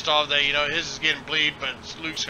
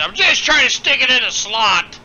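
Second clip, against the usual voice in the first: high, loud mocking imitation; mocking quote; 9 semitones higher, 10 dB louder than usual. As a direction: squeal it out in mockery. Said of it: "coming from the guy that said".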